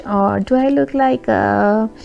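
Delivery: slow, drawn-out mock growl; mock angry witch. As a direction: play a grumpy witch, slowly. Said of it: "angry witch".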